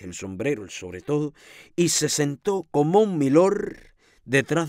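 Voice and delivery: animated storytelling with lingering emphasis; story narration. A narrator's reading. Reading the tale of Camilo before the painting, animated narration. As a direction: tell the story with lively rises and pauses.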